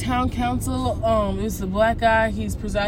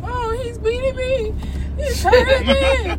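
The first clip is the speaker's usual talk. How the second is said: mock fake crying; slower than usual. Mocking the lady filming the council, high fake-crying wail. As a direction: ham up a fake victim's whimper.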